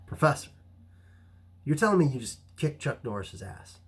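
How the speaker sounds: acted-out astonished question; retold disbelief. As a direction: stop him short in amazement.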